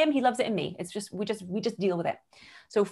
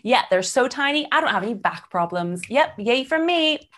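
higher, louder, slow proud boast; proud showoff; 4 semitones higher, 3 dB louder than usual. Retold or imitated. On stage showing off to the audience, proudly boasting. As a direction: show them off triumphantly.

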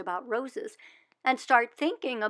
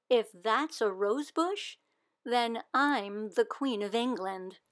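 sarcastic; slower than usual. Acted. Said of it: "She's using sarcasm".

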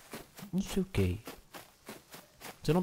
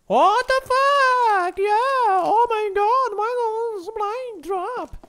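high, loud elated yelling; excited shouting; 4 dB louder, much slower than usual. Real, not acted. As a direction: scream with joy at the loot. Thrilled at supply drop in game. (gritos eufóricos pelo supply drop)

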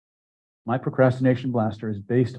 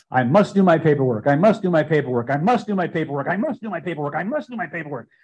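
loud, high, insistent repeated vow; emphatic loud declaration; loud emphatic statement; 5 semitones higher, 4 dB louder than usual. Shown as a demonstration. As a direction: drive it home with full force. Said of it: "a very loud, emphatic, emotional statement".

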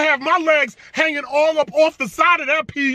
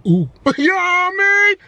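laughing; 7 semitones higher, 3 dB louder than usual. Real, not acted. Laughs after joke.

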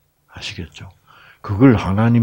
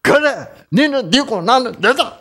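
much higher, curt dialect retort; tough Gyeongsang wife. Retold or imitated. A fed-up Gyeongsang wife telling her husband off, curt and cold. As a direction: cut him off coldly in broad dialect. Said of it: "나중에는 어떻게 돼요?".

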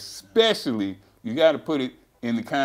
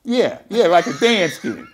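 laughing; 7 semitones higher, 8 dB louder than usual. Real, not acted. Laughing at the dance skin joke.

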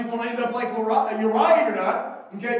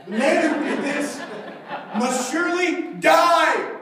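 outraged king; 4 semitones higher, 4 dB louder than usual. Acted. David's verdict, acted out.

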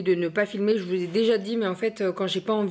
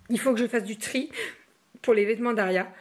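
hiccuping between words; talking through hiccups. Real, not acted. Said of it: "j'ai le hoquet et je bâille".

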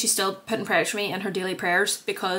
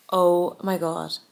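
excited gasp; much slower than usual. Real, not acted. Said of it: "I'm so excited".

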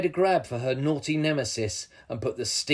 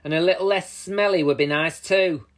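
higher, louder amused jibe; laughed teasing; 4 semitones higher, 5 dB louder than usual. A narrator's reading. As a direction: tease with a touch of laughter. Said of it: "laughed Barbara".

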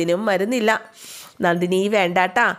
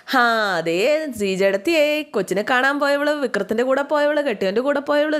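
mocking taunt; 5 semitones higher than usual. Nandini sneering gossip about Veda.

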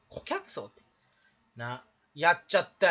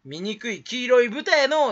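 slow, higher mock jeer; imagined insult; 4 semitones higher, 5 dB louder, slower than usual. Streamer imagines being attacked on Twitter, mock jeering. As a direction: draw out the imitated taunt. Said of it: "って言われちゃう".

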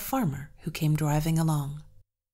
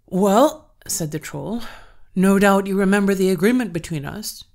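loud, booming troll threat; menacing troll; 2 semitones higher, 8 dB louder than usual. Acted. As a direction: loom over him as a troll. Troll turns menacing on servant.

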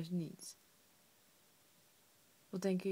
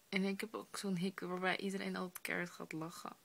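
hushed late-night whisper. Real, not acted. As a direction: whisper so nobody wakes.

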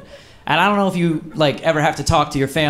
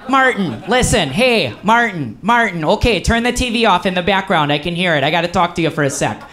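Uncle Jim; 5 semitones higher than usual. Retold or imitated. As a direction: call out Martin over and over like a pushy Midwestern uncle. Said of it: "he's just like".

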